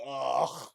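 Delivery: loud, high "ugh" of revulsion; disgusted groan. Real, not acted. Recoiling from their bathtub, loud disgusted groan.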